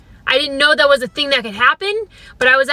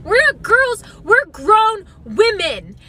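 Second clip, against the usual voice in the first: put-on raised, huffy rant about being called girls; mock indignant outburst; 4 semitones higher than usual. To her friend about the usher, a mock indignant outburst. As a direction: work yourself up, half-joking. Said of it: "got angry at her tone".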